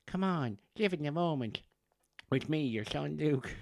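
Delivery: high-pitched put-on Offaly farmer coaxing Dad; baby son's Offaly farmer voice. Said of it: "that's his voice".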